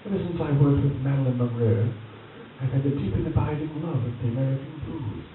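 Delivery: put-on high, grand old-actor voice; imitating Lawrence asking about his music. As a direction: ask with regal curiosity. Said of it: "He said".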